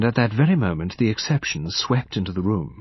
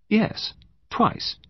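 much higher-pitched female character; light, high reply; young woman answering; 12 semitones higher than usual. Acted. Woman answering the detective's question, high-pitched.

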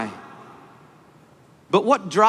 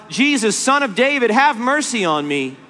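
retold cry for mercy, raised pitch; 5 semitones higher than usual. Blind Bartimaeus begging by the road, crying out to Jesus. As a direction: call out pleadingly, as a preacher retelling. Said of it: "and he cries out".

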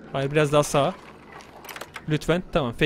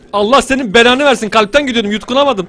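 startled curse; 7 dB louder than usual. Real, not acted. Startled by a jump scare.

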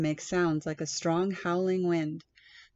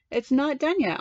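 put-on high, loud little boy insisting; a small boy refusing to stop playing; lightly voiced child; child protesting; 7 semitones higher, 6 dB louder than usual.

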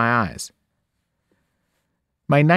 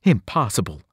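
cried out; 2 semitones lower than usual. Acted. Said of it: "the servant cried".

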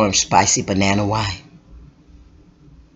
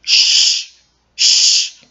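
whispered shh; hushing. Acted. Storyteller hushing the crowd, whispered. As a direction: hush them with a breathy shh.

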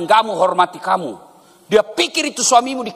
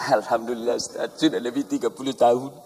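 lightly voiced wife; 7 semitones lower, 5 dB quieter than usual. Wife answers ustaz.

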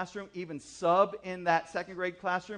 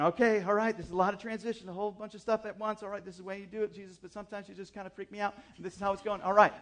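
higher-pitched, run-on self-reassurance; forced calm; 3 semitones higher, faster than usual. Retold or imitated. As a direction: talk yourself calm while secretly freaking out. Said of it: "trying to keep it just really calm".

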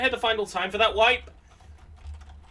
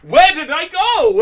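slow, louder, through laughter; laughing; 3 semitones higher, 4 dB louder, slower than usual. Real, not acted. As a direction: laugh out the question. Repeat, laughing.

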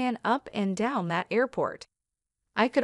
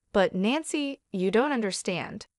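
ordinary delivery

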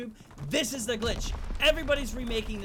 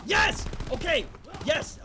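excited; 5 semitones higher, 3 dB louder, slower than usual. Real, not acted. Plan works, cheering in game.

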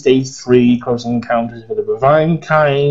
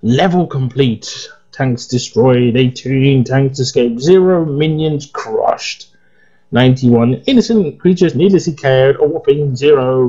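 results readout; slower than usual. Acted. Reading the results screen aloud.

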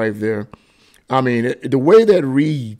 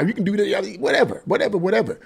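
much higher, airy brush-off; dismissive whatever; 6 semitones higher, 3 dB quieter, faster than usual. Real, not acted. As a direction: toss the critics aside lazily. Dismissing critics' complaints.

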